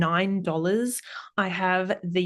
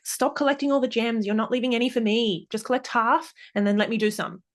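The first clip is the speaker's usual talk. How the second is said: put-on child's request; 4 semitones higher, faster than usual. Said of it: "my child said something like".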